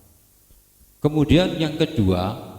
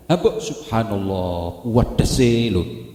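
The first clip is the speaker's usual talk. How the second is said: "subhanallah" drawn out slowly in admiration; same admiring intonation; 2 semitones lower, slower than usual. Shown as a demonstration. Preacher offers pious words to replace slang, "subhanallah" slow and admiring. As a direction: stretch "wedese" very slowly, savouring it. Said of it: "Intonasinya padha".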